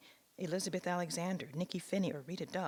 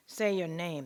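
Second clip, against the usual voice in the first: loud barked order; commanding; 2 semitones higher, 8 dB louder, slower than usual. Retold or imitated. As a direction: command the slave, loud and hard. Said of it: "commanded in a thick Irish accent".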